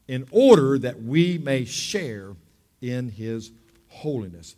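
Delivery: emphatic preacher reading, slowing at the end; scripture reading. Acted. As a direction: read the passage like a sermon. Reads Hebrews 12 aloud.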